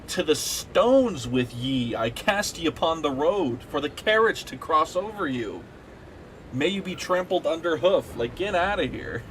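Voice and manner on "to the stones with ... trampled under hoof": put-on slow, grand old-world banishment; hammed-up olde English curse, slow start; mock archaic curse. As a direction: cast them out like a medieval lord.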